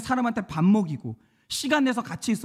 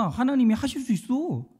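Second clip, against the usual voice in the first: firm retold assurance, higher pitch, falling end; confident assertion; 3 semitones higher than usual. Testifier assuring doubters that God can do it, confident. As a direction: assert it as one who has seen it.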